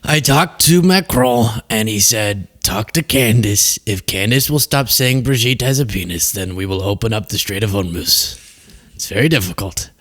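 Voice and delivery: lightly voiced presidential impersonation; Trump. Commentator playing the president reporting a Macron conversation, slipping impersonation. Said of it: "I've lost my Trump accent".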